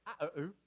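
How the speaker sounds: "Ah, ooh" in vowels only, low and soft; a softly imitated child's "Ah, ooh" for "I love you"; child's mispronunciation. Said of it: "who can't really talk good".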